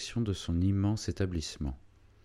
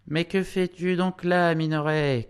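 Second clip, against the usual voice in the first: much higher, louder woman's cry; sudden scolding cry; 9 semitones higher, 4 dB louder than usual. A narrator's reading. Wife bursting in on her idle husband, a scolding cry. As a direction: call out sharply, voice pitched right up. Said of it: "cria tout à coup une petite femme".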